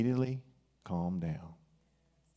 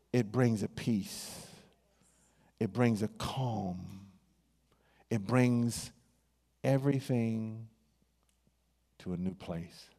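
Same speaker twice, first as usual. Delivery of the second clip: slow soothing preaching; calm; slower than usual. Acted. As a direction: let the words settle slowly. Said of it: "slowed, calming repetition".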